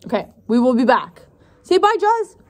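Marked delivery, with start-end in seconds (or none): 1.6-2.4 puppy voice. Real, not acted. Wave-off with puppy to viewers.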